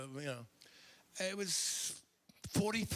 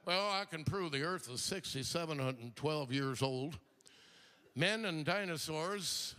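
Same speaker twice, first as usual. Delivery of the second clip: lightly voiced TV know-nothing; a hint of a blustering idiot, measured out phrase by phrase; idiot on television; 2 semitones lower than usual. Comic mocks a creationist on television, lightly put-on idiot voice. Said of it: "one more idiot on television".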